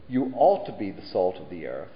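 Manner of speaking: "ought" leaned on with a rising tune, as a wrong version; stress on ought. Shown as a demonstration. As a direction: hit "ought" and let it rise. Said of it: "Jesus didn't say".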